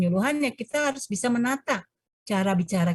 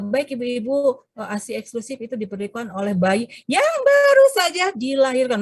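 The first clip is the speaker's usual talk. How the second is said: pitched up on every word, slightly louder, as a demo; badly placed intonation; 4 semitones higher, 4 dB louder than usual. Shown as a demonstration. Health presenter demoing pitched-up intonation to the mothers. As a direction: show how an awkwardly raised delivery sounds. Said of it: "menyajikan misalnya seperti ini".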